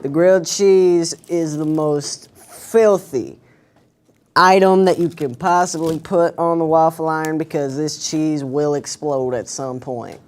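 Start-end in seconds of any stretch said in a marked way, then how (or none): 0.0-6.6 dramatic warning. Acted. Mock warning to viewers.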